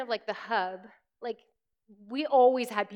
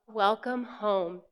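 slow welcome; 4 semitones lower, much slower than usual. Shown as a demonstration. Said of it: "a slide that says".

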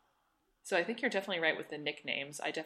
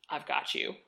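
whispered; 2 semitones lower than usual. Retold or imitated. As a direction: whisper it tenderly. Friend's unspoken message.

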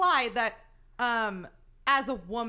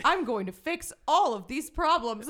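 slow, louder mock hero voice; mock heroic; 4 dB louder, slower than usual. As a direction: ham up the noble vow. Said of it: "the A D R is".

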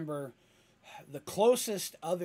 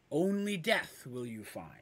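deep and threatening. Acted. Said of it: "deep and threatening".

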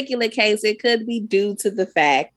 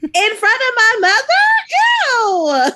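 disgusted; 12 semitones higher, 5 dB louder, slower than usual. Real, not acted. Disgusted at mom kissing.

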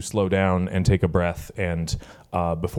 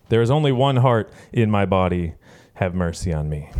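poem reading. Shown as a demonstration. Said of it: "goes like this".

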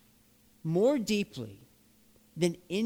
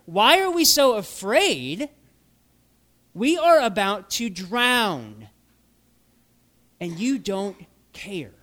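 exasperated outcry; 6 dB louder than usual. Acted. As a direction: throw the answer back, louder. Voicing disciples' obvious answer.

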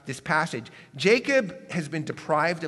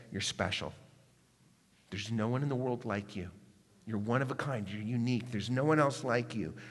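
softer, lower, tender reassurance; affirming blessing; 4 semitones lower, 4 dB quieter than usual. Acted. Preacher voices the blessing we all need, tenderly affirming. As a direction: gently tell them how much they matter.

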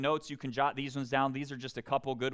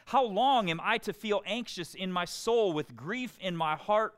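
raised, pleading cry to God, higher and louder; pleading lament; 5 semitones higher, 5 dB louder than usual. Acted. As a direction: read it as an anguished plea to the Lord. Preacher reads lament psalm aloud.

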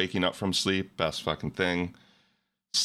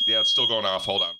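raised voice over a loud alarm; over fire alarm; 5 dB louder than usual. Real, not acted. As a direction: talk loudly over a beeping alarm. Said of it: "sounded like a fire alarm going off".

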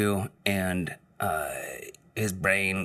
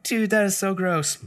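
disgusted; 12 semitones higher than usual. Retold or imitated. Speaker's disgusted reply.

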